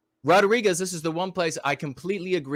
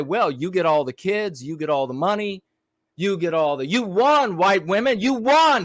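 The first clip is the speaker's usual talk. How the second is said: a mock judge ruling that builds from an even tone to a loud, much higher "you won"; 4 semitones higher, 3 dB louder than usual. Imagined judge addressing white women, building to a shout. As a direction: start like a calm ruling, then shout the win. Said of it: "and the judge is gonna say".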